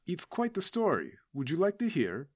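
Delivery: put-on Russian-accented storyteller offering a tale. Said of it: "so natively my accent is Russian".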